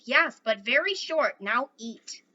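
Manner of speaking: loud, curt warrior's scolding. Acted. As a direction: snap an order at the boy. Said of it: "Little Bear scolded".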